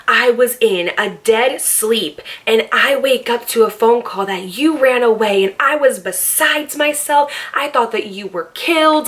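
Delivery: imitating a hysterical overreaction, slow start; mock dramatic cousin. Cousin Hillary retelling her fright, mild mock hysterics. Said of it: "the most Oscar-worthy performance of her whole entire life".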